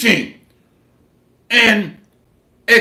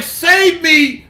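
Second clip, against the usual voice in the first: mock pleading wife; 5 semitones higher than usual. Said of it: "She's like".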